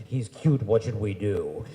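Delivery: put-on loud, eager girls conspiring; a loud girlish huddle; excited huddle plotting. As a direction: plot it out loud with the girlfriends.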